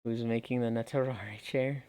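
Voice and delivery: sleepy, worn-out tired voice. Real, not acted. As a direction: sound tired and drowsy. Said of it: "You sound like an adorable, tired boy".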